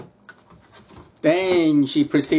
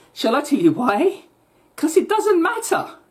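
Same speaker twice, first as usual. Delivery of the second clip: sarcastic exasperation; 10 semitones higher than usual. Real, not acted. Ranting, sarcastic rhetorical question.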